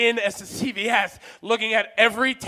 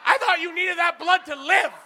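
higher, fast, alarmed; mock shock; shocked outburst; 6 semitones higher than usual. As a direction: react in horrified disbelief. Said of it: "just like".

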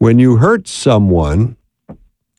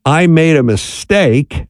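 sincere admission; 4 semitones higher, slower than usual. Shown as a demonstration. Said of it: "is a much better thing than to say".

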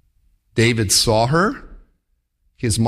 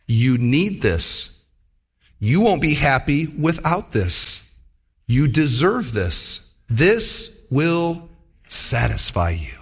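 tempting voice; slower than usual. Acted. Temptation voice whispering suggestions.

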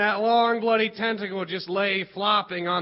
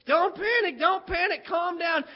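raised, higher-pitched mock call for calm; teacher shouting; 6 semitones higher than usual. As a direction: call out over the chaos to keep kids calm. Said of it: "Missus Baird was shouting".

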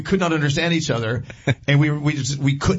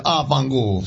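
Ah, fangool tossed off with an Italian lilt; mock Italian curse; Italian swear; slower than usual. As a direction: fling out fangool like a Roman. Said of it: "if I went to Italy and said".

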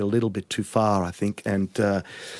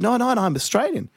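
retold reply; 12 semitones higher than usual. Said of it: "I said".

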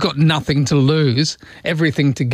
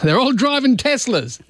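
higher, casual mock Musk; breezy imitation of Musk; Elon Musk impression; 8 semitones higher than usual. Host imagines Musk announcing aliens on telly, mock voice. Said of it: "He goes".

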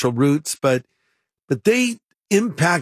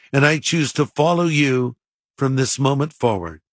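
measured prayer in short phrases; leading prayer. Real, not acted. Pastor leading listeners in a prayer to follow Jesus, measured and paused. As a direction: pray phrase by phrase, pausing for others to repeat.

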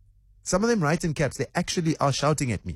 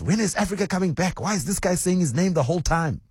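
higher, put-on voice for the annoyed lady caller; quoting a complaining listener; 7 semitones higher than usual. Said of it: "there was a lady who asked".

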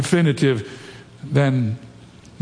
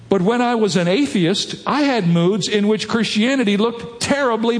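raised, emphatic pulpit reading; quotation read aloud; 5 semitones higher than usual. Acted. Preacher reads C S Lewis to the congregation, emphatic quotation reading. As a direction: read it out higher, stressing key words.

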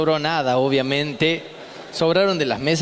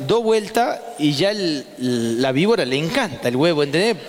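healer's instructions. Retold or imitated.

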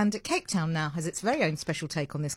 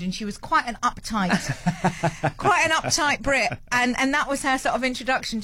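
laughing; 4 semitones higher than usual. Real, not acted. Laughing through the story.

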